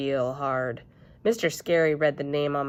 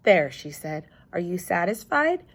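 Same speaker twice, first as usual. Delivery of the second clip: fed-up snap. Acted. Elf Ellen fed up.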